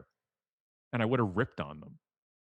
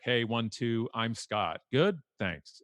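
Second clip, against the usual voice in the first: breezy, loud mic-check voice, pitched up; cocky throwaway mic test, higher and louder; mock sound check; 5 semitones higher, 7 dB louder, much slower than usual. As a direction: rattle off a quick sound check like it's nothing. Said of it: "do my sound check".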